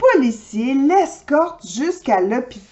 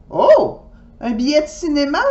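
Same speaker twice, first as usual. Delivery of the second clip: surprised mom; 4 semitones higher, faster than usual. Acted. Mother surprised questioning.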